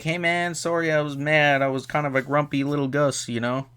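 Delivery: high put-on apologetic voice; imitating sheepish apology. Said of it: "he's just like".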